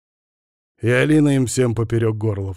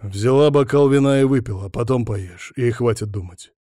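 stern. Acted. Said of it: "сурово начал я".

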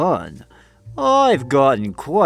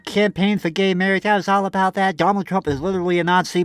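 higher, breezy liberal-lady voice; mock progressive woman; 5 semitones higher than usual. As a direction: gush like an earnest progressive. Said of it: "You're like".

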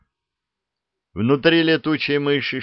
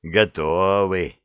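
satisfied grunt; much slower than usual. Acted. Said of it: "удовлетворённо хмыкнула".

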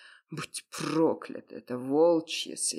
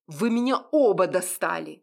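a sharp, louder snap of cold anger; cold angry voice; 4 semitones higher, 7 dB louder than usual. Acted. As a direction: Mak has had enough of both of them. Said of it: "раздался злой и холодный голос Мака". (злой и холодный голос)

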